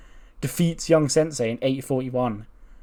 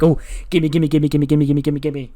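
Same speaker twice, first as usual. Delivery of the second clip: happy; 4 dB louder than usual. Acted. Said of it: "She's all happy".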